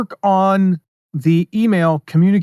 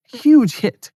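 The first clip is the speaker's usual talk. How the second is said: excited; 7 semitones higher than usual. Real, not acted. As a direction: repeat it with real thrill. Repeats the result, more excited.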